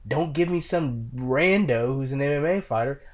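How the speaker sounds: usual speaking voice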